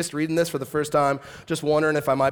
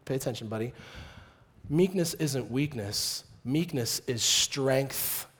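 gentle instruction; 4 semitones lower, 4 dB quieter than usual. Retold or imitated. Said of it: "What he's teaching them is".

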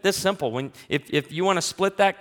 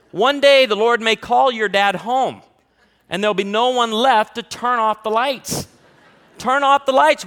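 louder and higher, preaching full force; mock solemn proclamation; 6 semitones higher, 7 dB louder than usual. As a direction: ham up a grave warning. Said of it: "mock solemn warning about lights".

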